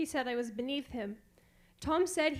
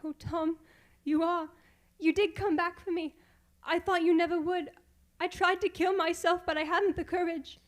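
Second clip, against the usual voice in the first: higher, louder, overwhelmed with emotion; tearful relief; 4 semitones higher, 4 dB louder than usual. Acted. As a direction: pour out relief and shame. Distressed wife reunited.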